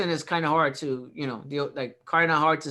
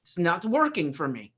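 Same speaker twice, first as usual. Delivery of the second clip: mock British caller. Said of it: "It's like".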